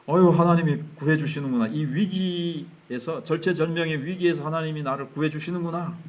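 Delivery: acted grateful exclamation; inner relief. David inwardly thanking God for rescue from crisis, relieved exclamation. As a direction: exclaim with relief, as a private thought. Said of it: "속마음은 이러면서".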